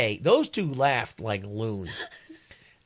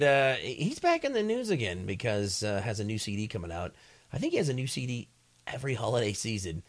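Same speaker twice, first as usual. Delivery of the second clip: radio DJ read. Shown as a demonstration. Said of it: "send this to the program director".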